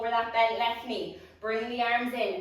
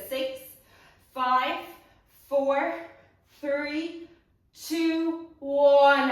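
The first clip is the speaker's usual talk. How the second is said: building countdown; 3 semitones higher, 6 dB louder, much slower than usual. Real, not acted. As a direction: count down getting louder to a big shout on one. Counting down final pulses.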